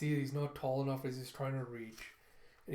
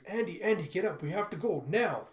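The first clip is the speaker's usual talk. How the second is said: loud, higher, urgent wake-up call; urgent shout; 5 semitones higher, 7 dB louder than usual. Retold or imitated. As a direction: rouse the sleeping boy in panic. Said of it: "as he hears".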